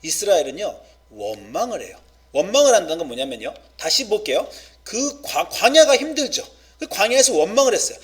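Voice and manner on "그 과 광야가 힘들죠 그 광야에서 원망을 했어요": fervent preaching. Real, not acted. Preacher building up to fervour.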